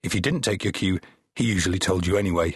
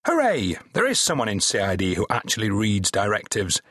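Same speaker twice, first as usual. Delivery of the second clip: mock cheer, dripping with sarcasm; heavy sarcasm. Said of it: "with heavy sarcasm".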